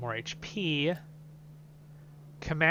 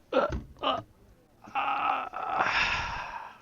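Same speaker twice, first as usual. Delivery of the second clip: awed gasp; 11 semitones higher, much slower than usual. Real, not acted.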